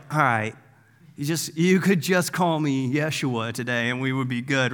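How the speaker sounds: understated, offhand comic deadpan; mock unimpressed. Jesus answering overexcited John, mock unimpressed. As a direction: play it as mildly putting up with a fan.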